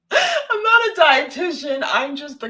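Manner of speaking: high, slow laugh through the words. Real, not acted. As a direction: crack up while correcting your own slip. Cracks up at own word stumble.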